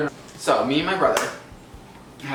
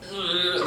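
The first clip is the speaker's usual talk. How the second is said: higher mock strained groan; strained grunt; 5 semitones higher than usual. Demonstrating the noise made at a brother, strained grunt. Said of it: "like, strain it".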